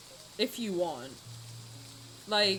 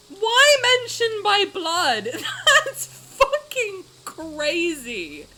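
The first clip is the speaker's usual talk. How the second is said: laughing, half crying, slowed; laughing despair; 3 dB louder than usual. Real, not acted. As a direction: laugh through disbelief.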